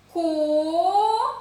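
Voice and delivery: "Ко" held long, high and loud; syllable by syllable. Shown as a demonstration. Teacher reading the first syllable with children, long and loud. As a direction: stretch "Ко" as a separate syllable. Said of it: "Перший склад".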